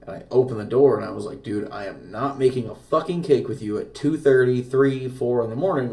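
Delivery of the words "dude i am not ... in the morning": mildly raised, exasperated refusal; retold aggression. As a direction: re-enact an angry refusal, emphatic but contained. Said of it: "react with aggression at that point".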